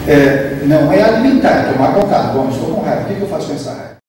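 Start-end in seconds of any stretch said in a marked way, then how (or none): 2.3-4.0 soft, trailing inner voice; calm self-questioning. Acted. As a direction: ask yourself gently, almost to yourself. Calm self-questioning about anger. (pergunta interior, baixinho)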